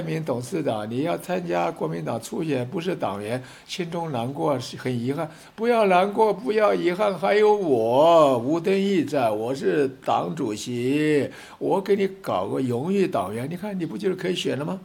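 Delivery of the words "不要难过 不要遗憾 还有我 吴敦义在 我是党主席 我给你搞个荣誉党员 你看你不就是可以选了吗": mock consoling chairman. Chairman promising Terry Gou honorary membership, mock-grand. Mocking Wu Dunyi's consolation again.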